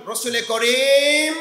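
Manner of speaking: slow, stretched call to the crowd; loud call-out. Real, not acted. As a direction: draw out the last word for everyone to echo. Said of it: "একবার জোরে সোরে বলুন".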